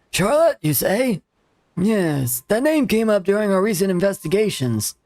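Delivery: a hint of a grumpy old man. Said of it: "old man voice".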